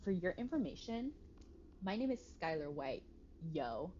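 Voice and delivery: a hint of the Skylar White audio, sassy; imitating Skylar White. Streamer quoting the Skylar White meme to chat, mock sassy. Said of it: "audio of Skylar White when she's like".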